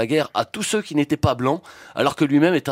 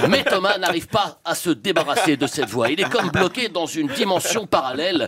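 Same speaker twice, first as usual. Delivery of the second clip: movie trailer voice. Acted. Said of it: "cette voix de bande-annonce".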